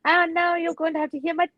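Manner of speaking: terrible British accent. Shown as a demonstration. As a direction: put on a bad British accent. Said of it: "hear my terrible British accent".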